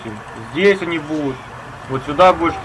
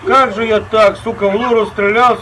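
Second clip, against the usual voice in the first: rattled, higher pitched sorry; flustered apology; 5 semitones higher than usual. Real, not acted. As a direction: blurt out apologies after a mistake. Shot teammate by accident, apologizes.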